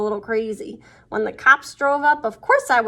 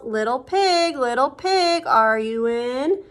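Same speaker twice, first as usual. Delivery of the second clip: calling out; slower than usual. Acted. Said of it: "so I called".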